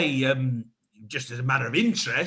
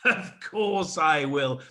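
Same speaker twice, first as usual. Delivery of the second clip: accepting a proposal; 4 semitones higher than usual. Acted.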